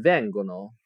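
vengono stressed on the first syllable, VEN-go-no; stress shown on vengono. Shown as a demonstration. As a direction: lean on VEN in vengono, let go-no fall away. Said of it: "注意重音".

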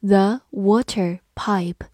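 slow, whispered read-along. Shown as a demonstration. Teacher reads slowly for class to follow. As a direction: breathe the words out slowly. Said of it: "跟着我慢读一遍".

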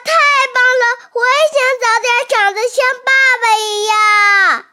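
high, fast, loud awed little voice; excited child. Acted. Baby dinosaur cheering papa's moves, high and fast. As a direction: gush with wide-eyed wonder.

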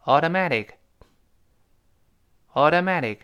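AUTOMATIC run together with both t's as d's; quick connected reading. Shown as a demonstration. Teacher drilling the fast version, t's voiced. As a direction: say "automatic" as a fluent "audomadic". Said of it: "我们再快点读".

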